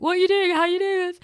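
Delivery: incredulous. Retold or imitated. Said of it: "bawling my eyes out".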